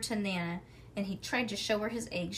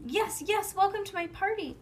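much higher, gushing welcome; spoiled girl showing off; excited; 10 semitones higher, 4 dB louder than usual. A narrator's reading. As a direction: hop and brag to the guests. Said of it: "Lucille hopped".

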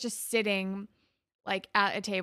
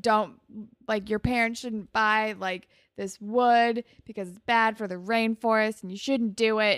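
preachy lecture; 4 dB louder than usual. Retold or imitated. Emma lecturing dudes on rainforest.

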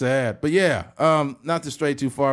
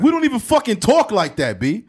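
higher, louder mock New York protest; pissed-off New Yorker; 6 semitones higher, 5 dB louder than usual. New York guy objecting to the impression, indignant New York accent. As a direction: play an offended New Yorker. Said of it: "New York guys get pissed off".

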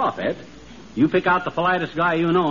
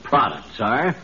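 hammy stage actor. Acted. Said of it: "the way Sir Walter Raleigh talks".

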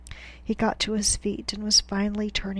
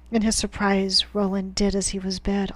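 plain reading voice

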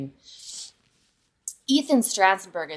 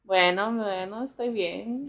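put-on lightly done Spanish accent, easy and casual; 6 dB quieter than usual. Answering her co-host in a casual Spanish accent. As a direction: slip into a relaxed Spanish accent. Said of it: "It's uncanny how you sound Spanish".

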